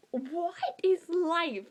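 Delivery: high, slow, overwhelmed lament; hammed-up emotional breakdown; mock tearful despair. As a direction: wail it slowly as if about to cry. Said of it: "I was gonna start crying".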